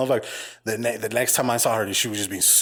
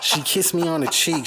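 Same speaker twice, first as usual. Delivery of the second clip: laughing; 7 semitones higher than usual. Real, not acted. Laughing retelling.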